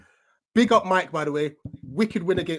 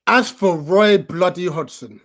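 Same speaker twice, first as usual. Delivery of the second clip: slow, louder, each word weighed with disgust; exasperated; 6 dB louder, slower than usual. Real, not acted. Fan vents at the manager, slow exasperated emphasis. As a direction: spit the name out, fed up. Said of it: "I'm done".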